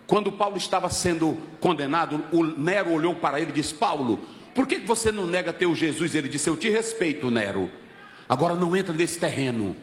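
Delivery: low, intimate preacher's narration; low, solemn retelling, slowing at the close; hushed sermon storytelling. Real, not acted. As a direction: drop the voice right down for the story. Preacher tells Paul story low.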